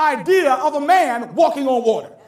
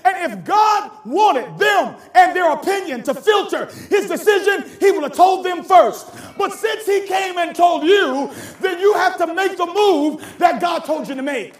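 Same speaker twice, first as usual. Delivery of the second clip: fervent, raised preaching voice; 3 semitones higher than usual. Real, not acted. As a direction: drive the point home to the congregation. Preaching at full force.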